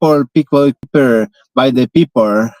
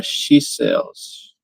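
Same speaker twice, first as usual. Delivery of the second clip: whispered practice; 6 dB quieter than usual. Real, not acted.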